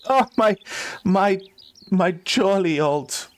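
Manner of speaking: fond, slightly hammed-up pet talk; doting bird owner. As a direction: haltingly coo over your precious bird. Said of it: "what he's saying is this".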